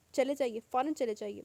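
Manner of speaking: loud, panicked order to leave; frightened shout. A narrator's reading. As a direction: shout him away from the door. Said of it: "وہ بے اختیار چیخی تھی". (گھبرا کر زور سے چیخنا)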